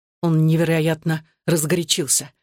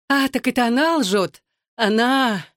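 high-pitched indignant disbelief; incredulous; 7 semitones higher than usual. A narrator's reading. Wife throws husband's denial back, incredulous.

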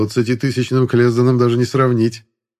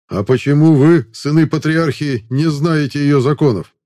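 stern mercenary; 5 semitones higher, 4 dB louder than usual. Acted. Mercenary demands at the gate.

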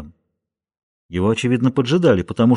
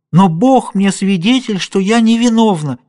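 earnest plea; 7 semitones higher, 4 dB louder than usual. Acted. Julia pleads innocence before bursting into tears.

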